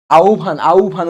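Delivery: আহ্বান said as "au-bhan"; pronunciation demo. Shown as a demonstration. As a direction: say আহ্বান with an "au" glide and a breathed bh. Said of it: "উচ্চারণ".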